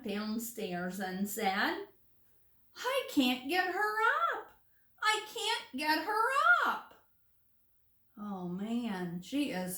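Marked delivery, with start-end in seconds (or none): 2.7-6.9 high, fretful repeated cry; despairing mother. A narrator's reading. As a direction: wail it out, at wits' end.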